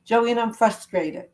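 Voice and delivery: slow, mild frustrated admission; demonstrated frustration. Shown as a demonstration. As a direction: say it slowly as if you really mean it. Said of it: "So I'll do it as if it's me".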